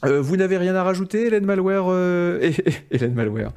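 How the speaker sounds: upbeat show host wrap-up; bright thanks to the guests; host outro. Acted. Host's closing outro. (ton d'animateur qui conclut)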